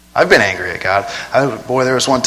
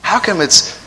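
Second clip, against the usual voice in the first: lightly voiced confused reader; 3 semitones higher than usual. Preacher mimics confused Bible reader, lightly puzzled. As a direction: puzzle over Acts aloud.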